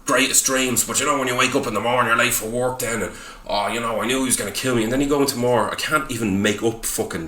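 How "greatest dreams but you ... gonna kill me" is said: lightly mocked pretentious film character; a touch of pompous, poetic musing; mock Shakespearean scholar. Podcaster ridiculing a pretentious film's dialogue, mock-scholarly. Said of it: "they all talk like fucking Shakespearean scholars".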